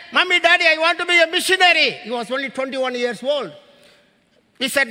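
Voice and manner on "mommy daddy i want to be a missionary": higher, louder eager son; an excited young man making his big announcement; father voicing his son announcing his calling; imitating the son. Retelling son's announcement.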